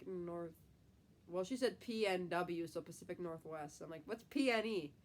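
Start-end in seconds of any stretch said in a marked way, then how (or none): 4.0-4.9 puzzled. Retold or imitated. Confused quote of herself.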